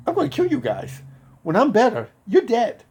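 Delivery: high-pitched, heated warning; retold threat. Patient to the corpsmen who mock him, threatening.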